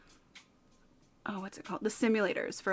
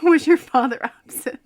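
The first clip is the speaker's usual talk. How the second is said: put-on valley girl therapist; 5 semitones higher, 14 dB louder than usual. Valley therapist asking client.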